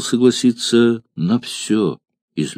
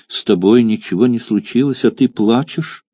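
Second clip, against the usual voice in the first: put-on little girl; 3 semitones higher than usual. Child reproaches her mother.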